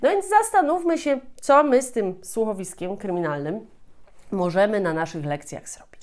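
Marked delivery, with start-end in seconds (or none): none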